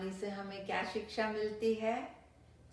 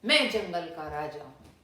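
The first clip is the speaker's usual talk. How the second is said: much louder lion roaring मैं जंगल का राजा हूँ down the well; thundering roar; 9 dB louder than usual. A narrator's reading. Lion roaring down the well at his reflection, booming. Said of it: "जोर से गरजा और बोला".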